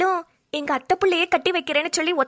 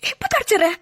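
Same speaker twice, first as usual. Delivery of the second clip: tearful; 3 semitones higher than usual. Acted. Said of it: "தேம்பி தேம்பி அழுவுறவ".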